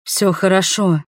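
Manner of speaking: ordinary delivery, nothing marked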